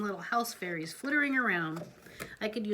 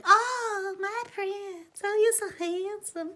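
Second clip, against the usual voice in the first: much higher, swooning voice; tickled; 11 semitones higher, slower than usual. Acted. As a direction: gush over the handsome prince. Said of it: "She was just so tickled".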